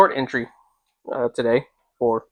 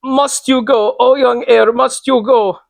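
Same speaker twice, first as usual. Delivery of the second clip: high, louder frantic pleading; hysterical; 12 semitones higher, 8 dB louder, slower than usual. Acted. Old lady begging the traveller not to go, hysterical high plea. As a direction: beg him desperately not to leave, pitched high. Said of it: "said in a very hysterical way".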